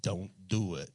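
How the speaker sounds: low, soft, dead serious "don't"; deadpan warning. Pretend. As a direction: drop the act and warn quietly. Answer after the mock permission.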